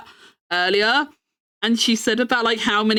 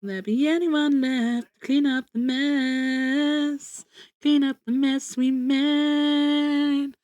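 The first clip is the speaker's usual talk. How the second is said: dramatic recital; slower than usual. Pretend. Singing-style dramatic recital.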